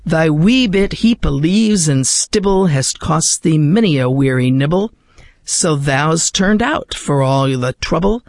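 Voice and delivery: slow, measured reading of a Scots poem; poem recitation. Acted. Host reads To a Mouse to radio listeners, measured poetic recitation. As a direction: recite it with careful rhythm and feeling.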